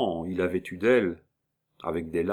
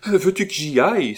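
much higher, louder outburst; exclaimed offer; 9 semitones higher, 8 dB louder than usual. A narrator's reading. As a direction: burst out with the offer. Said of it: "s'écria la comtesse". (exclamation plus aiguë et plus forte)

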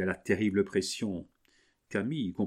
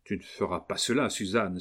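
terrified outcry. Acted. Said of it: "s'écria Camille épouvantée".

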